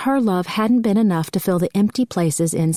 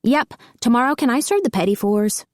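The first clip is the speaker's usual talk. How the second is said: put-on little girl voice; 6 semitones higher than usual. A narrator's reading. Little girl Lexi asking mother.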